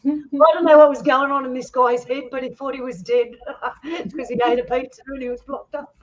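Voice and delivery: high, helpless laughter through the words; laughing while talking. Real, not acted. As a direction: tell it while cracking up, pitch way up. Laughing at own funny story.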